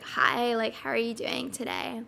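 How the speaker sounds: put-on light Valley girl vocal fry; lightly voiced Valley girl greeting; Valley girl accent. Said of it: "like, the Valley accent".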